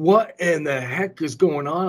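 retold anger. Driver recounting critters flying at her, retold anger. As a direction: slowly stretch it out in retold irritation. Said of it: "then I'm getting angry".

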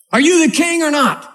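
taunting queen. Acted. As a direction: goad his ego. Jezebel taunting Ahab.

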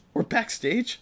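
high-pitched mock fangirl question; almost screamed. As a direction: squeal it without fully screaming. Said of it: "I almost screamed".

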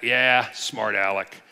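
lightly acted smart-mouthed sass; a little snarky. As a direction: imitate a snarky woman sizing up a stranger. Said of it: "she's getting a little snarky".

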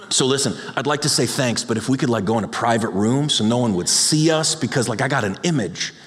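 low, hedging excuse; reluctant churchgoer. Acted. Churchgoer asking Jesus for a private room, lightly reluctant. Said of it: "can you imagine someone come back and be like".

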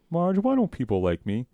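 high, plaintive Homer impression; imitating Homer. Homer asks Marge in bed, high plaintive whine. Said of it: "Homer goes".

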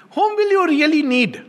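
usual speaking voice

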